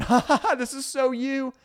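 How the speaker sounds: high fake cackle of a teasing text; mock laughing. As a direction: laugh it off as a cheeky dig. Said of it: "tag it with a laughing face going".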